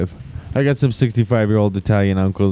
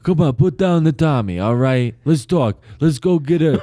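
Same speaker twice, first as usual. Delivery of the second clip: mock pleading mobster; 4 semitones higher than usual. Pleading mobster brother role-play.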